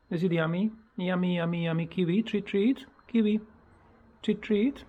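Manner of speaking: high coaxing pet voice; pet talk. Real, not acted. Owner to pet bird Kiwi offering food, cooing pet talk.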